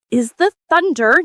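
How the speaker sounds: high, loud and certain; confident schoolgirl answer; decided answer. A narrator's reading. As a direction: say it as if beyond doubt. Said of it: "Alice said very decidedly".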